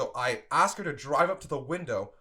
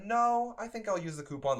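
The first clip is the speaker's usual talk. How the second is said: hesitant; 5 semitones higher than usual. Retold or imitated. Customer weighing her decision at the window, tentative. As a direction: mimic someone tentatively making up their mind. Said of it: "it wasn't like a".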